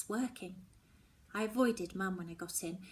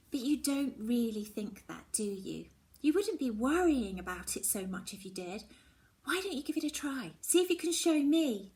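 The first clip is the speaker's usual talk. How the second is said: a hint of a kind, coaxing friend, rising higher; lightly voiced Mallory; 4 semitones higher, 3 dB louder than usual. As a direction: gently urge her friend to try.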